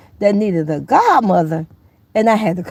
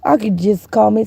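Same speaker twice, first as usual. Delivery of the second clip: sweet grandma greeting. Pretend. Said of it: "hello, Grandma".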